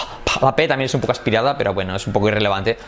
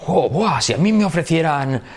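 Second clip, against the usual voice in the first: raised-pitch wishful exclamation, hammed up; acted enthusiasm; 2 semitones higher than usual. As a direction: play it eager at the thought. Acts out tempting beer offer. (entusiasmo fingido, tono agudo)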